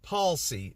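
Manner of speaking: "palsy" as two syllables, PAWL-see; careful PAWL-see for "palsy"; corrected palsy. Shown as a demonstration. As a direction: say "palsy" without the middle vowel of "policy". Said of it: "Not policy like".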